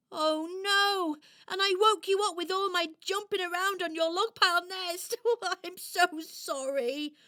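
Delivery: high, loud, dismayed doll voice; apologetic little doll. Acted. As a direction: gush an apology as a tiny doll. Doll apologises for waking hedgehog.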